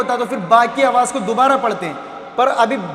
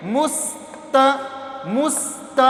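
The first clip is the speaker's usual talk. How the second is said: slow syllable demo; much slower than usual. Shown as a demonstration. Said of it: "खींचेंगे नहीं ता को".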